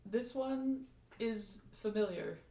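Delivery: soft, level machine speech; robot voice. Acted. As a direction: speak like a simple robot. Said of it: "more robot voice".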